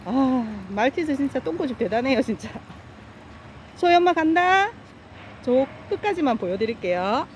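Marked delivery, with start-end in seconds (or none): 3.8-4.7 loud, high call across the water. Real, not acted. Owner calling her dog across the stream, loud high call. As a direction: call to the dog far away.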